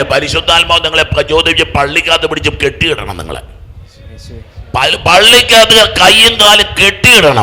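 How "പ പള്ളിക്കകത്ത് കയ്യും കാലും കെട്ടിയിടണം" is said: loud, high, slow exhortation; preacher's raised voice; forceful preaching. Acted. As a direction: drive each word home from the pulpit.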